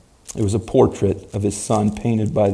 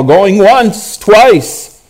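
auctioneer closing sale; 9 semitones higher, 7 dB louder, much slower than usual. Acted.

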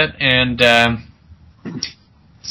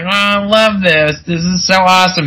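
mock excited agent; 5 semitones higher than usual. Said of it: "he's like".

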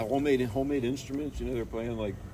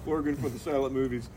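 proud organist. Pretend. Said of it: "there's probably some guy".

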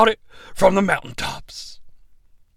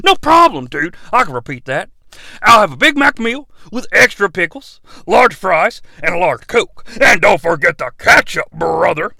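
Hulk Hogan. Acted. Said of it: "Hulk Hogan".

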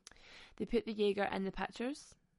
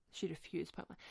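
whispered aside; 3 semitones lower, 6 dB quieter than usual. Real, not acted. Emphatic aside.

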